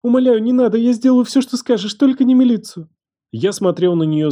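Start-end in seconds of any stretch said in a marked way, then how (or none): 0.0-2.9 high, loud, frantic pleading; panicked begging. Acted. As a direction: beg on your knees in terror. Girl begs on her knees.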